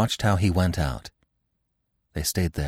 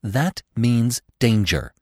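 slow, higher-pitched warning on "That means danger"; persistent; 4 semitones higher, slower than usual. A narrator's reading. Bambi warning Gobo, slowly insisting "That means danger". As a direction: press each word of "That means danger" slowly. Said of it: "Bambi persisted".

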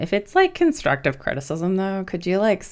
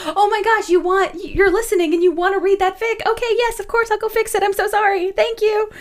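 very high, gushing squeal of gratitude; overjoyed. Retold or imitated. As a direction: gush with delight, pitched way up high. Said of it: "I was so happy".

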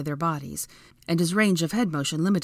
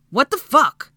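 high, loud, angry outburst; pained outrage; 10 semitones higher, 10 dB louder, slower than usual. A narrator's reading. Draco to Hermione after her punch, outraged. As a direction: burst out in pained disbelief. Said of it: "he ground out".

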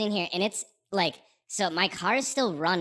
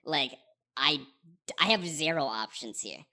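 mock prayer; 4 semitones lower than usual. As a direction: lightly plead to the heavens. Desperate prayer in stuck car.

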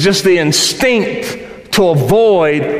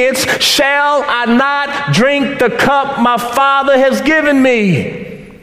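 perfect obedience; 8 semitones higher, slower than usual. Acted. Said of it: "in perfect obedience".

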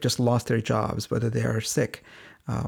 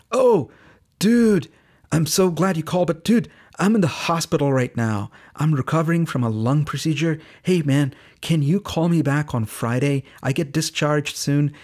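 big, high "oh, dude" settling into eager talk; imitated excitement; 4 semitones higher, 4 dB louder than usual. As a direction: act out a man thrilled to get the call. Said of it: "he actually was excited".

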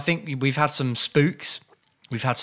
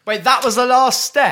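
loud, high disbelief; surprised shout; 10 semitones higher, 7 dB louder than usual. Real, not acted. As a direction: shout it in shock. Surprised at the game ending.

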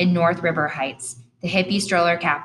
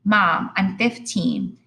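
slow, drawn-out plea to mom; teen stretching out her point; slow, exasperated teen to mom; 3 semitones higher, much slower than usual. Acted.

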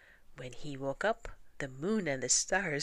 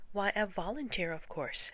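much higher, breezy answer; cocky young mouse; 5 semitones higher, 3 dB louder than usual. Acted. Young mouse answering grandmother, breezy and sure. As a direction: brush off the question.

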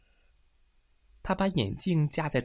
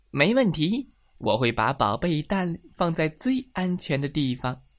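lightly raised, eager hen voice; confident hen character; 4 semitones higher, 3 dB louder than usual. Acted. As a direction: promise it with cheerful confidence. Hen accepts the second job.

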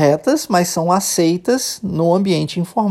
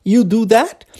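"You do that" pitched up, rising on "that"; question intonation; 4 semitones higher, slower than usual. Shown as a demonstration. Teacher showing informal question without auxiliary, rising intonation. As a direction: make "You do that" a question by lifting the end. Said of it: "Só dando a entonação correta de pergunta".

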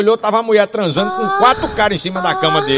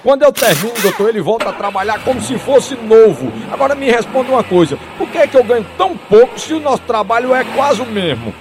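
showing-off mechanic; 3 semitones higher than usual. Acted. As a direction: make a show of needling the doctor. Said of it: "o mecânico tirando onda com os outros".

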